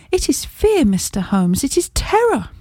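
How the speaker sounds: high, pleading voice of a frightened lady; terrified woman. Acted. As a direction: pitch it up high on fear and terror, shaken. Terrified client pleads with Holmes.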